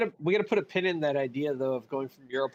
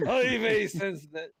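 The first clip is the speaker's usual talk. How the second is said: put-on Yiddish accent; 3 semitones higher, slower than usual. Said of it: "a really good Yiddish".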